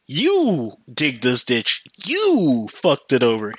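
long, stretched YOU at the start of each sentence; slow, acted accusation leaning hard on "You"; drawn-out blame. Acted quitting worker blaming boss.

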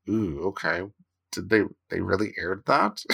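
quiet, amused disbelief; half-whispered "did they really"; mock surprise. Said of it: "things that are kind of like".

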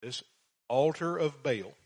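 ordinary talk, nothing marked

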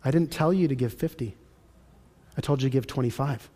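quietly imitated voice of God; God gently correcting. God corrects a giver who overgave, calm and quiet.

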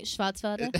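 put-on German pronunciation; playful German accent; mock German accent. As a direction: say it like a pretend German. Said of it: "Up in, up in Germany".

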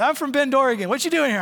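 high, loud shouted answer; yelling. Retold or imitated. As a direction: yell so the whole bar hears. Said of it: "so I'm yelling pretty much".

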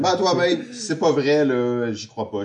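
indignant disbelief. Real, not acted. Outraged disbelief.

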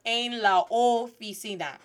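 "oficina" in Spanish vowels, long o and ee; Spanish pronunciation. Shown as a demonstration. Teacher showing the class how to say oficina, Spanish vowels. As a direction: say "oficina" as oh-fee-SEE-nah. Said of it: "not the officina".

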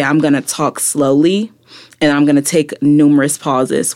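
measured, with a pause between phrases; spoken-word delivery. Shown as a demonstration. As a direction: demonstrate spoken word, pausing after the phrase. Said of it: "when I do spoken word".

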